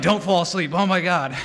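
hammed-up frantic warning; mock panic. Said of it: "He's, like, really panicking".

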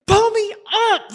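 high, urgent cry; exhausted swimmer calling up to the boat; desperate plea. Retold or imitated. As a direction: beg to be hauled out.

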